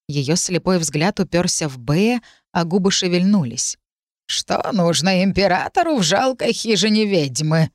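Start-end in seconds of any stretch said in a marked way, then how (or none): 4.3-7.7 put-on reedy old witch voice; a thin, creaky crone. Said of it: "Ведьма сидела у жаровни".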